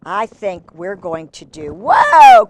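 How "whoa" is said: startled whoa. Real, not acted. Cat jumps up.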